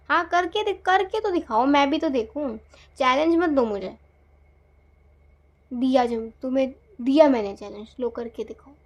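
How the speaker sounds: angry dare. Acted. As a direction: hurl the dare back, fed up. Quarrel, daring the partner.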